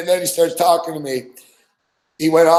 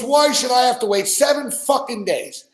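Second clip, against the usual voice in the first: much higher mock indignant whine; mad gun owner; 8 semitones higher than usual. Imitating the buddy ranting about the wait, mock outrage. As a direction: ham up his outrage over the waiting period. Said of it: "He was mad, man".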